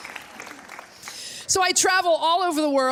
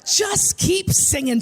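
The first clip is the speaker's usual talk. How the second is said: slow, higher urging; insistent pastor; 5 semitones higher, slower than usual. Retold or imitated. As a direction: press her to carry on, drawing it out. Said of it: "the pastor keeps going".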